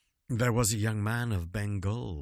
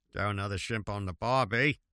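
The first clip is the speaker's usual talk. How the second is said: a weak mock Australian accent, softer; a half-hearted stab at an Australian accent; poor Australian accent; 3 semitones lower, 4 dB quieter, faster than usual. Reading limericks aloud, a poor Australian accent. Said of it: "my poor Australian dialect".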